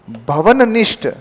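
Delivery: भवननिष्ठ slowly, both न clear; slow dictation of भवननिष्ठ; spelled out. Shown as a demonstration. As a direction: stress the double न in भवननिष्ठ. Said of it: "ना कितनी बार".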